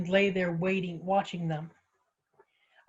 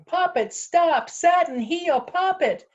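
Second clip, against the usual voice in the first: high, loud calls after runaways; frantic, drawn-out yell; urgent shouting; 10 semitones higher, 5 dB louder, slower than usual. Acted. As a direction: call out commands in alarm. Calling after runaway dog and woman.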